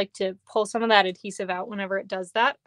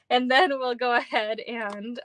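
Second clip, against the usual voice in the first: wavering voice. Real, not acted. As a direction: voice fluctuating and unsteady. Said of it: "I don't know why my voice keeps fluctuating today".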